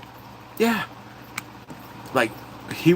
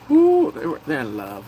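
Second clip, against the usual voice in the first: teasing ooh. Real, not acted. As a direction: tease the couple. Reacting to romance.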